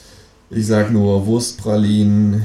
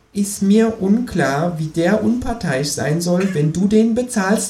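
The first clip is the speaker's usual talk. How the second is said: high, slow, drawn-out sneer; sceptical kangaroo; 11 semitones higher, slower than usual. A narrator's reading. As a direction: drag it out, doubting every word. Kangaroo retorts.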